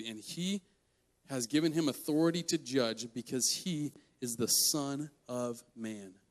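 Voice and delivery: soft, measured verse with weighty pauses; scripture reading. Real, not acted. Preacher reads the last verse to the group, scripture reading. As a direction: read it quietly, letting each phrase land.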